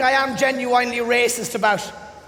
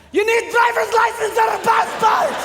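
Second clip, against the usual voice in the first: clerk voice; 6 semitones higher than usual. Retold or imitated.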